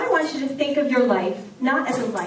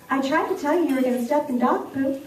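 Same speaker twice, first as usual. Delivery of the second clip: put-on sarcastic boy; faster than usual. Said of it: "sarcastic look on his face".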